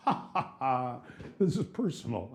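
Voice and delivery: a mock laugh, then the words; imitating her laugh. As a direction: retell her giggling reply in fun. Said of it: "And she's laughing".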